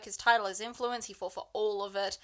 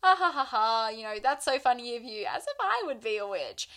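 fake nervous laugh; 3 dB louder than usual. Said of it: "it's more like a".

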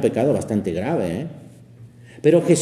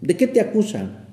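sincere, not ironic; 7 semitones higher than usual. Pretend. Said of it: "Tampoco es irónico al decir".

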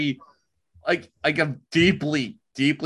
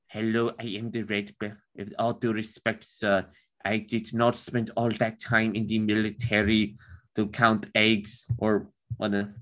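a stereotypical German accent, softer and a bit lower; lower, softer voice in a stereotypical German accent, like a Werner Herzog take; 5 semitones lower, 3 dB quieter than usual. Shown as a demonstration. Offered to read the Red Baron's letters, so does a stereotypical German accent. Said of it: "I can pull off a German accent".

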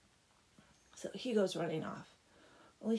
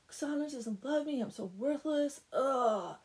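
high mock wail ending in a loud groan; worked up; 5 semitones higher, 4 dB louder than usual. Blacksmith lamenting his unrequited love, worked-up whine. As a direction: wallow in hammed-up self-pity. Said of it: "he gets himself all worked up".

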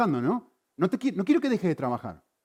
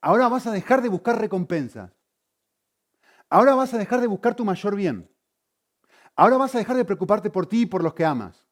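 lightly voiced God, pitched higher; imagined divine command; 5 semitones higher, 4 dB louder than usual. God supposedly ordering the heart to change, imagined command. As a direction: hand down each order emphatically, in a raised pitch. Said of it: "Dios no viene a tu corazón y te dice".

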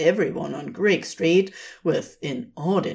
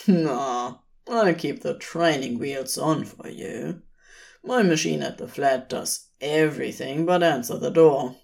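a hint of a laid-back demon; lazy demon; 2 semitones lower than usual. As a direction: coax him lightly toward coffee. Crowley voiced in story.

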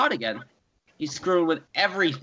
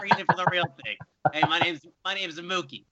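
Mookie greeting; 3 semitones higher, 9 dB louder than usual. Retold or imitated. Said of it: "Mookie Betts just coming up".

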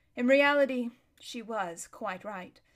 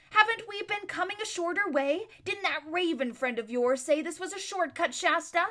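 questioning horse; 7 semitones higher than usual. A narrator's reading. Bree voiced questioning.

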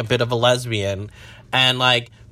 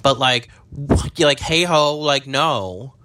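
exasperated scolding; scolding beachgoers; 3 semitones higher than usual. Retold or imitated. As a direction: tell them off like a sassy friend. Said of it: "and I was like".

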